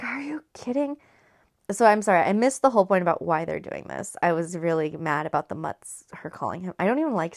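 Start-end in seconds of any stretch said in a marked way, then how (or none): 0.0-1.0 high, lightly voiced disbelief; incredulous. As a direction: ask it in mock incredulity, pitched up. Voices Bella's incredulous retort.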